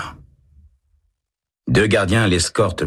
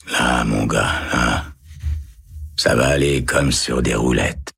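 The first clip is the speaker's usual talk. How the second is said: soothing murmur; 4 semitones lower than usual. A narrator's reading. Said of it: "en murmurant".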